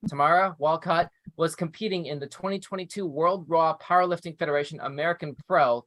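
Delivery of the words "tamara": Tamara as tuh-MAR-uh; alternative name pronunciation. Shown as a demonstration. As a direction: say Tamara with a stressed open "mar" in the middle. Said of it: "or Tamara".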